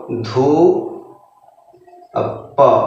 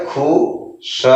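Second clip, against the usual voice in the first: whispered syllables; 4 dB quieter, much slower than usual. Shown as a demonstration. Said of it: "तो क्या हो जाएगा?".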